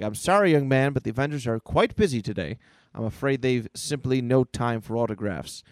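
lightly voiced formal butler; apologetic butler. Butler turns the boy away, mildly formal apology. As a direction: politely brush him off.

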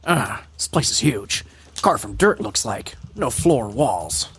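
lightly voiced terse action-hero impression; Snake. Host reading cellar captions, light Snake impression. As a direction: report it in short pieces, dropping low at phrase ends. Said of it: "I'm gonna go back to Snake".

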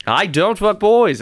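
hammed-up Australian bloke; mock Australian.

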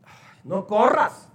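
slow, drawn-out "Ay, no corras" with a whiny rise; mock a mother who begs instead of correcting; weak pleading mother. Preacher mocks a mother pleading with her running child, slow whiny. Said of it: "Hasta más fuerte le decía".

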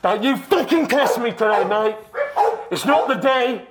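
hammed-up Aussie-ish accent on every line; lightly put-on antipodean accent, threatening the host; weird put-on accent. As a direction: play Coco the tough Yeti, mock menacing. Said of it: "that's a weird fucking accent".

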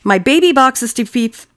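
on the verge of cracking up; trying not to laugh. Real, not acted. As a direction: read it while fighting the giggles. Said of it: "I'm trying not to laugh".

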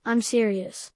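lightly gruff disguised voice. Retold or imitated. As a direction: put on a mild gruff growl. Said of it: "using a gruff voice to say".

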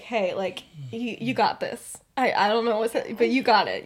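low, gentle encouragement; steady a friend softly, fumbling the words; quiet reassurance. Retold or imitated. Friend squeezes her hand before the game, quietly reassuring.

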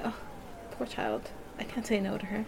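soft, low pitying inner voice; the aunt privately pitying her niece, soft and low; pitying murmur. Retold or imitated. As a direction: think it softly, full of pity. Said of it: "she's probably thinking".

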